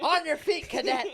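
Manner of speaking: loud, high barked order; drill sergeant. Pretend. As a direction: bark it at a recruit. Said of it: "sound like you're a drill sergeant".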